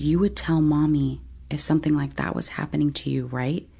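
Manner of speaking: put-on creepy, eerie voice. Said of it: "this, like, creepy".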